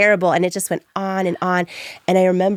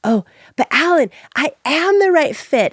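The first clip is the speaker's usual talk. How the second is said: pleading through tears, higher and louder; 10 semitones higher, 4 dB louder than usual. Retold or imitated. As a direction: beg him to reconsider. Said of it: "I was like".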